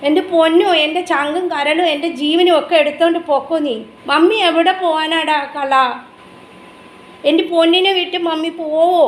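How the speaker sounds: adoring voice for a beloved pet. Real, not acted. Mother coos to her pet.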